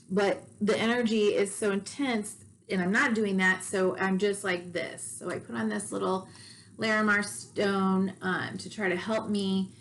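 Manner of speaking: slightly shaky, jittery voice. Real, not acted. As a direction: voice a little shaky with nervous energy. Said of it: "If my voice sounds shaky".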